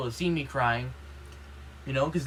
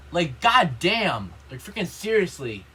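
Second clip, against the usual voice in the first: loud, slow, drawn-out exasperation; exasperated outburst; 4 dB louder, slower than usual. Real, not acted. Student fed up with the bald gym teacher, drawn-out exasperation. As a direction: let the frustration stretch out.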